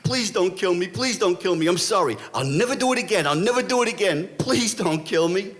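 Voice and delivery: high-pitched pleading, mock-tearful; whimpered, repeated begging; crying. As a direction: imitate a terrified man begging for his life. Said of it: "and he's crying".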